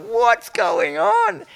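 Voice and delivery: high, drawn-out disbelief; slow, high-pitched amazed retelling; mock bewilderment. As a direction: exclaim it in giddy, exaggerated confusion. Retelling own bewildered cinema reaction.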